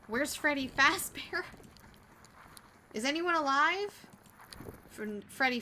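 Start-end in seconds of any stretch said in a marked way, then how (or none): 0.1-4.1 high, loud calling out. Acted. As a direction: call into the wreckage. Voiced rescuer calling out.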